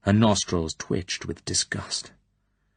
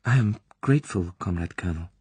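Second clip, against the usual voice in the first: weak stammer; faster than usual. Acted. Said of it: "She stammered in a weak voice".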